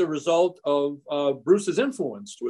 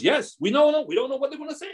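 higher, excited Argentine-accented imitation; light Argentine accent, eager and pitched up; quick Argentine-accented reply, much higher; 10 semitones higher than usual. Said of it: "He goes".

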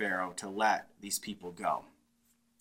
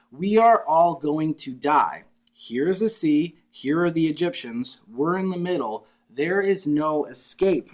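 mock despair; 3 semitones higher, 5 dB louder than usual. Israelites trapped between sea and army, hammed-up despair. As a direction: play the doomed crowd, hammed-up.

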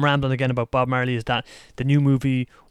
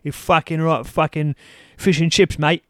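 mock London accent; 3 semitones higher than usual. Mocking how the London actor talks, rough London accent. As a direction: imitate a London geezer badly. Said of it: "He's got a bloody London accent".

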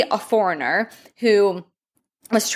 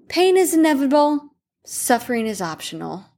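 calm acceptance; 3 semitones higher than usual. Retold or imitated. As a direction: exhale and let it go. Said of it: "took a big, deep breath and just sighed".

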